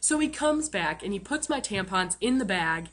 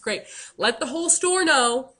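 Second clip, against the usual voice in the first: sarcastic; 2 semitones higher, 3 dB louder than usual. Retold or imitated. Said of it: "I was just".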